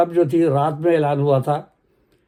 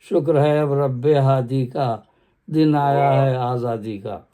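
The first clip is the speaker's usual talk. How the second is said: measured poem recital; stately nazm recitation; slower than usual. Acted. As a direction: declaim the stanza evenly. Last stanza of nazm. (باوقار انداز میں نظم خوانی)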